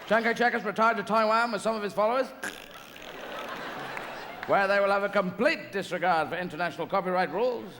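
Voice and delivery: a hint of an eager dolphin reporting news. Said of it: "dolphins came up going".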